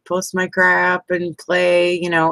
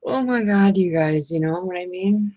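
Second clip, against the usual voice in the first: ordinary delivery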